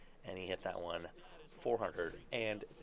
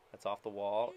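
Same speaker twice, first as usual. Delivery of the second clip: excited call; 6 dB louder than usual. Real, not acted. Calling his own hit.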